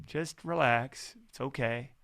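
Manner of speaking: a calm, kind inner voice, slow and soft; soothing inner voice. Retold or imitated. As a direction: gently talk yourself down. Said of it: "another voice comes in that goes".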